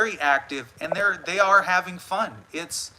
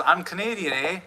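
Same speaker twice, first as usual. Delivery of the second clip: put-on Canadian accent. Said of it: "Smokey M C B says".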